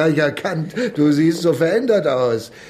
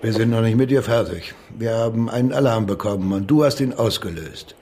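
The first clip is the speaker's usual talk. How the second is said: menacing cop; 6 semitones lower than usual. Acted. Cop threatens suspect.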